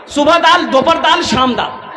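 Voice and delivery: laughing shout on the last dal; hammed-up cry of despair at meals. Comedian punches the meal list with a laughing shout.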